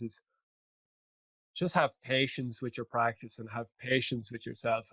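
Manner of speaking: put-on gentle old man. Quoting the calm old man.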